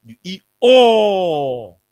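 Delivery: very slow, loud accusing line; accusing the leader of eating everything, slow and loud; drawn-out accusation. Real, not acted. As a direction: stretch it out like a charge. Scolding the leader.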